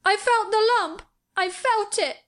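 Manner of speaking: put-on very high, tearful boy wail; choked out. A narrator's reading. Sobbing boy insisting to the girl, choked. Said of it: "choked out Colin".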